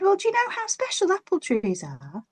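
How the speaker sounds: high kindly lady voice; Mother Nature. Acted. Mother Nature encouraging the tree, high and kind. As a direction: coax him gently. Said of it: "She said".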